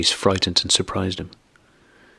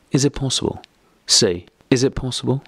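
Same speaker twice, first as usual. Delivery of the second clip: higher, pressing demand; a wife demanding an answer, voice raised; 6 semitones higher than usual. A narrator's reading. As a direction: push the question at him, voice rising. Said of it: "raising her voice".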